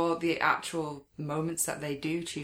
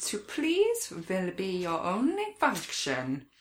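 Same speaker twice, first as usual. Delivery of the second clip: mock German officer; 2 semitones higher, slower than usual. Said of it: "hilarious quotes I've written down".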